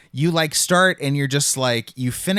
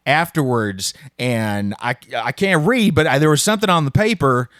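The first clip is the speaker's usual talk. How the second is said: put-on Southern accent. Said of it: "the accent, the accent".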